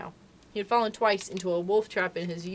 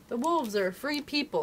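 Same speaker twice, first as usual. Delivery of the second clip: Father Wolf; 5 semitones higher than usual. Acted. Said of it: "said Father Wolf".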